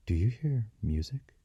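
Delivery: whispered question, lifting high; hushed. A narrator's reading. Young woman to boy in the atrium, hushed whisper. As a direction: ask it in a breath, hushed. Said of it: "Leslie spoke in a hush".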